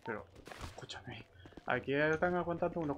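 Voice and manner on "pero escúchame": hushed whisper, barely voiced. Real, not acted. Whispering a warning to a teammate about nearby zombies. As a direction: keep it under your breath so the zombies don't hear.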